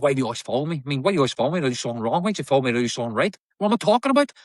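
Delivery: reciting a film monologue, lightly in character, rising at the end; acting monologue. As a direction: perform a prison scene speech to a hidden coach, mildly heated. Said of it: "I just went straight into character".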